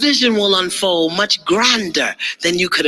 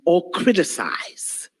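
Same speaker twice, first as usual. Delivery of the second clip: whisper; 5 dB quieter, slower than usual. Real, not acted. Whispered list end.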